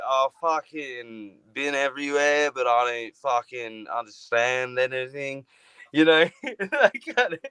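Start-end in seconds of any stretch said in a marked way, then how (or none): 0.1-5.5 lightly mocked boozy Australian comedian; Jim Jefferies. Host imitating a comedian he names, boozy Australian. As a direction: slur through it like a pub Aussie. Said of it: "he just kinda sounds like".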